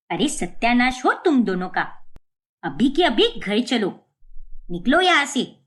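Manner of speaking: a mother-in-law's rising, cross order to leave; angry scolding. Acted. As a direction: drag them home in anger. Mother-in-law scolding at party. (गुस्से में डाँटती सास)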